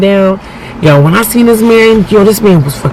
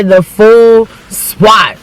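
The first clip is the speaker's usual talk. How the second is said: emphatic shout; 3 semitones higher, much slower than usual. Real, not acted. Emphatic exclamation.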